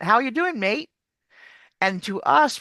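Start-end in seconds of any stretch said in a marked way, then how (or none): 0.0-0.9 imitated British or Australian lilt, higher pitch; British or Australian rise. Teacher imitating Brits and Australians, lilting British-Australian rise. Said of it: "they go up at the end".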